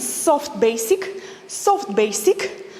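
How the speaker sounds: soft drawn out. Shown as a demonstration. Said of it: "soft, in a soft way".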